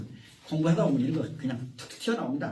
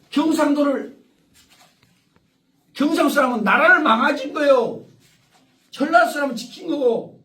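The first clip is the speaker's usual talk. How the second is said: emphatic; 8 semitones higher, 6 dB louder than usual. Real, not acted. Heated regional argument with audience.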